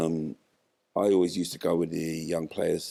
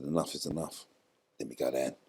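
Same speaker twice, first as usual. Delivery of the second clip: quiet firm resolve; 3 semitones lower, 5 dB quieter than usual. Retold or imitated. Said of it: "I said".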